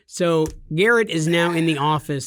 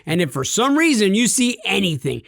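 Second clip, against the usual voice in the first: mock overeager salesman; 4 semitones higher than usual. Mocking his friend's promises to customers in a hammed-up salesman voice. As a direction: pitch it like he promises every customer the moon. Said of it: "And he's like".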